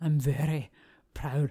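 low, failed attempt at a Scottish accent. A speaker admits she can't do accents, attempting a Scottish accent. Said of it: "I was trying to be like a Scottish".

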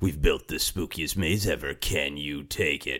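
low, dramatic, epic movie-trailer announcer voice. Describing the cultural dare around scary attractions, in a cool trailer voice. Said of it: "Cool trailer voice".

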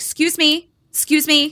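mock high, snappy, rude, impatient call. Retelling how a man called the server over, imitating someone snapping at server. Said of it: "like snapping at the server".

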